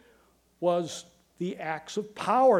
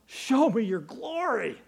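retold cry, only mildly raised; Moses crying out; 3 semitones higher than usual. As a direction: call out an earnest plea without shouting. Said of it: "he cries out".

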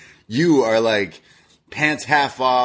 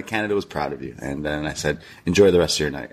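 lower, understated courteous retelling; polite well-wishing; 7 semitones lower, faster than usual. Retold or imitated. Man insists he was polite to the winner, calmly courteous. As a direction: recount it as calm, harmless politeness. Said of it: "I was polite and".

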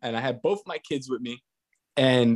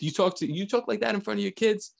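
lightly mimicked indignant lady, pitched up; scolding lady; 7 semitones higher than usual. Retelling the lady scolding him about his kids, mock indignant. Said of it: "she's yelling at my wife".

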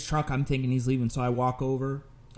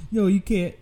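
higher imitated protest; urgent warning; 8 semitones higher, 4 dB louder than usual. Emergency operator warns caller not to hit, urgent protest. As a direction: cut in to stop him, acted out.

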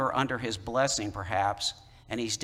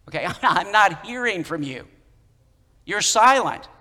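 louder and higher, a pleading outburst to God; David's anguished complaint; 6 semitones higher, 7 dB louder than usual. Retold or imitated. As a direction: cry out the complaint as if heaven stays silent. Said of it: "That's what David's, David's saying here".

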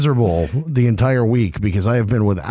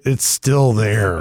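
slow, hungover drag; 2 semitones lower, much slower than usual. Real, not acted. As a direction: drag it out, still hurting. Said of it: "we're a little hungover".

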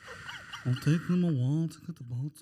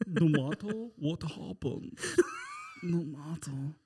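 solemn plea; 2 semitones lower than usual. Acted. Jack's dying plea, slow.

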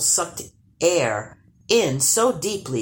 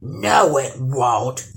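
growling troll; 4 dB louder, slower than usual. Acted. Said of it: "growled the troll".

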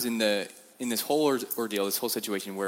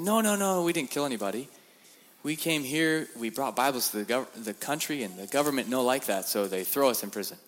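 high, emphatic no no no in broken English; eager denial; 4 semitones higher than usual. Retold or imitated. Preacher telling Chinese prisoners why he was jailed, eager denial. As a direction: protest innocence eagerly, pitched up.

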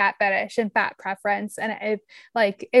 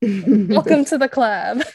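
laughing quote; 4 dB louder, slower than usual. Retold or imitated.

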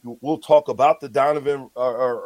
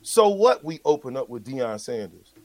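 usual speaking voice

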